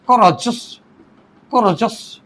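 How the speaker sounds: कोराजस pronounced in separated parts, को-रा-जस; three-syllable demonstration. Shown as a demonstration. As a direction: sound out कोराजस carefully, breaking before जस. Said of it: "तो इसमें तीन syllable हैं". (कोराजस को तीन syllable में साफ़ बोलें: को-रा-जस)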